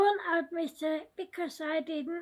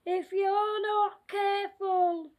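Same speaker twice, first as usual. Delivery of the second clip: scary voice. Acted. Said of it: "said the scary voice".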